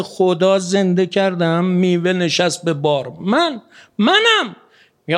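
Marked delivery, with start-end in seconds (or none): 3.2-4.6 high and slow, leaning hard on منم; emphatic I am. Acted. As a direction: insist like the one who truly acts. God insisting it is Him. (با تأکید بلند و کشیده)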